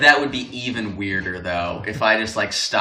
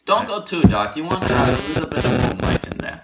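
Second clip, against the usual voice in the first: put-on German accent; 4 semitones higher, faster than usual. Bill Alexander painting instructions.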